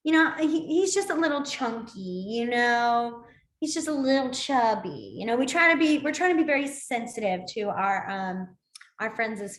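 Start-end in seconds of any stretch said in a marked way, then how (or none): 0.0-5.1 mock polite euphemism. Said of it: "nice ways of saying".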